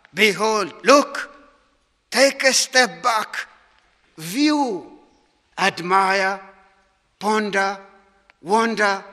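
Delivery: emphatic, spaced-out calls to look and wonder; emphatic exclamation. Shown as a demonstration. Preacher unpacking the Hebrew word for the congregation, emphatic exclamation. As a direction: exclaim each word on its own, with pauses. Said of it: "An emphatic exclamation".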